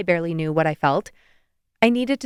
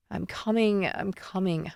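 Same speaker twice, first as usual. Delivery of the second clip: groggy, dropping mumble, fading softer; muttered; 7 dB quieter than usual. Acted. Sleepy daughter muttering on her way to the phone, groggy mumble. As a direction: mumble it, half asleep and annoyed. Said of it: "I muttered".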